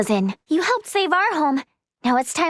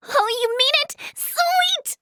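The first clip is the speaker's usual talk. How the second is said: high, jumping cheer; light up at a yes; delighted excitement; 9 semitones higher than usual. Acted. Permission to examine granted.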